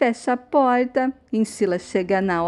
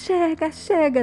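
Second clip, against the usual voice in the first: raised, high-pitched command; firm call to stop; 7 semitones higher than usual. Acted. Grandfather stopping two women fighting, firm high-pitched command. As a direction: cut into the commotion, pitched up.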